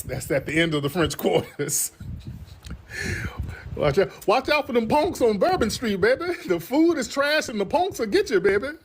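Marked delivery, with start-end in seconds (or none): 3.8-8.7 offended New Orleans local. Retold or imitated. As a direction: scold like an offended New Orleans auntie, high and stretched. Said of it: "they gonna tell you".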